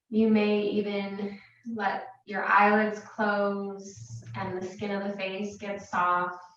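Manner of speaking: calm, unhurried meditation guidance with long pauses; guided meditation. Real, not acted. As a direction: guide them gently into relaxation, leaving space between phrases. Leads a meditation.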